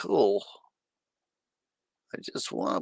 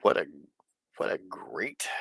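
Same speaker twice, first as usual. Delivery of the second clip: whispering; 7 semitones lower, 5 dB quieter than usual. Real, not acted. Awed whisper after movie.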